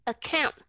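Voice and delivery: account, first vowel reduced to schwa; schwa start. Shown as a demonstration. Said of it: "cái này là account".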